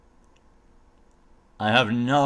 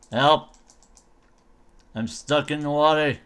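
louder, playful yelp for rescue; mock cry for help; 3 semitones higher, 4 dB louder than usual. Player stuck in the water, mock cry for help. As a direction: call out in pretend distress.

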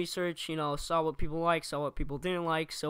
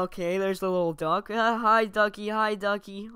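hyped gamer streamer. Pretend. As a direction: keep up the goofy stream banter. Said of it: "demo reel".

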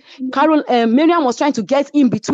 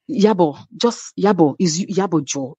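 Miriam; 4 semitones lower than usual. Retold or imitated. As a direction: gently coax a friend, retold. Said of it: "Miriam was just begging me".

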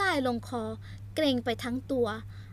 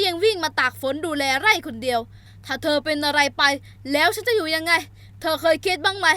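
louder, pained outburst; anguished anger; 8 dB louder than usual. Acted. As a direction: plead through frustration. Hero pours out anguished anger.

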